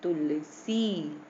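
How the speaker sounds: तुलसी with a short "tu" and a long-held "see"; quick short vowel. Shown as a demonstration. Teacher showing the short u matra, brief first syllable. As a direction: sound out तुलसी, holding only the end. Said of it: "ये भी जल्दी से बोल दिया".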